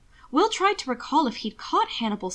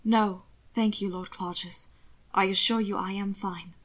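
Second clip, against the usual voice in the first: thin and cold; 3 dB quieter than usual. Acted. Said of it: "Will's voice was thin and cold".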